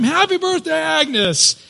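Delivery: imitating the cafe crowd yelling surprise; retold crowd shout. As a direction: belt it like a surprise party crowd. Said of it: "they all scream".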